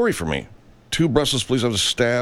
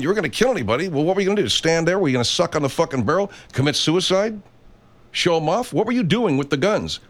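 much higher, rapid-fire questions; heated rant; 6 semitones higher, faster than usual. Real, not acted. Host grills the armed protesters, heated and high. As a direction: interrogate them, getting angrier.

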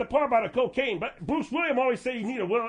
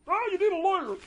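higher, bouncy radio host punchline; Bruce Williams impression; 7 semitones higher than usual. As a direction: land the host's stock answer. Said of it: "do the Bruce Williams".

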